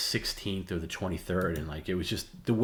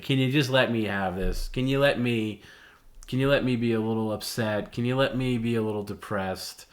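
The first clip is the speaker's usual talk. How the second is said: pleading retort; 3 semitones higher than usual. Retold or imitated. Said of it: "I was like".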